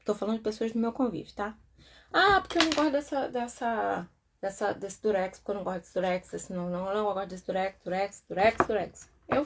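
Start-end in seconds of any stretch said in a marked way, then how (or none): 2.1-9.1 fast, repetitive mock griping; imitated complaining. Acquaintance griping endlessly about sticky tape, mock complaining.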